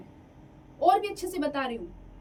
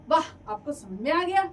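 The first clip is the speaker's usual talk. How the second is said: "वाह" and "गया" said with bright surprised emphasis, louder; exclamation; 4 dB louder than usual. Shown as a demonstration. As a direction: exclaim it with delight. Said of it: "विस्मयादिबोधक चिन्ह".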